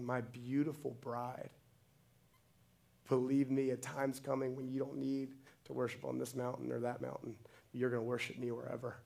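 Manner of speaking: quiet, tender reassurance. Acted. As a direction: speak gently, as if to someone beloved. Jesus voiced tenderly to the woman.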